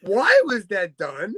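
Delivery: slow, dragged-out disbelieving questions; mock disbelief. Real, not acted. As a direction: draw each question out slowly as if appalled. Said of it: "mock outrage".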